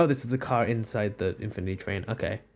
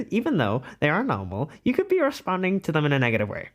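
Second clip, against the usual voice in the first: lightly theatrical advisor voice; put-on character voice. Streamer continues the quiz result in character voice. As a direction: read it out in a put-on voice. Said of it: "let me do this in a voice".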